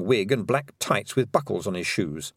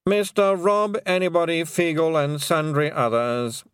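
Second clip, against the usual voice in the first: dread lawyer voice; 6 semitones higher than usual. Acted. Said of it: "in a voice of dread".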